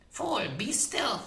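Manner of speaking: high shrill frightened crone; fierce witch voice. A narrator's reading. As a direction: snap at him, scared and fierce. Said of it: "voice was fierce with fear".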